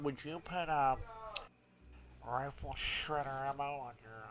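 pinched nasal voice, nose held shut. Pretend. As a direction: talk while pinching your nose. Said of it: "I can also hold my nose for you".

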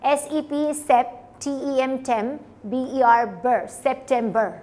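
measured phonics breakdown ending in English "September" for सितंबर; broken into syllables. Shown as a demonstration. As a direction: spell and sound each chunk of सितंबर: sep, tem, ber. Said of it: "आप उसको break कर लें". (सितंबर को तोड़कर उच्चारण)

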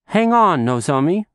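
mother calls out high and loud; calling out. Acted. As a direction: call after the running child. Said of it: "her mom called out".

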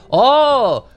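loud, high burst of surprise; real surprise, pitched well up; surprised exclamation. Real, not acted. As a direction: let out a startled cry. Startled at what the game shows.

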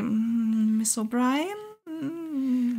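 softly drawn out, very slow, questioning "Miss O'Brien?"; slow soft questioning "Miss O'Brien?" with a rise; hesitant murmur. A narrator's reading. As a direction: stretch "Miss O'Brien?" out slowly and softly, unsure. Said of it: "murmelte Maudsley".

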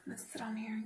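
soft unvoiced whisper. Real, not acted. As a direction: whisper it close to the mic. Whispers while at the mirror.

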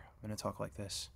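hushed low-volume mic test. Shown as a demonstration. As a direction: keep it soft and subdued. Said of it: "I'm gonna talk lower".

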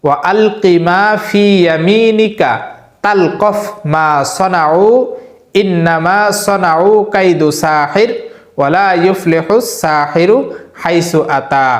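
slow, drawn-out recitation, words spaced apart; slow Quran recitation. Shown as a demonstration. Teacher reciting Surah Taha verse for memorizing, slow careful recitation. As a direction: chant it carefully, one phrase at a time. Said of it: "আবারও বলছি, ভালোভাবে লক্ষ্য করবেন".

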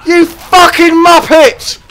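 furious high yelling at his hero; gamer rage. Real, not acted. Gamer yelling at his stuck Mountain King, furious. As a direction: scream it out, losing it completely. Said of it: "You wanted to see some rage? There's some fucking rage".

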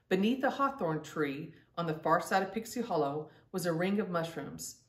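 gentle storybook reading with voiced girls; story narration. A narrator's reading. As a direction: read it like a bedtime story for kids. Reads children's story aloud.

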